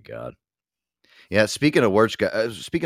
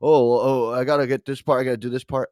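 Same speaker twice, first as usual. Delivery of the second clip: 1 whiny technicians; 4 semitones higher, 7 dB louder than usual. Retold or imitated. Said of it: "technicians coming in like".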